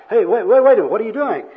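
loud, high protest; acted startled objection; alarmed protest. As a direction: cut in loudly to stop them. Acted quarrel, bum turns on worker.

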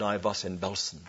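put-on soft, low German-accented retelling, almost reverent; hushed German accent. Preacher quietly repeating the survivor's words, soft German accent. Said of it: "And he said".

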